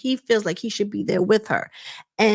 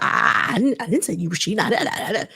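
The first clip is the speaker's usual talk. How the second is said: mock stutter. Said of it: "He was stuttering his butt off".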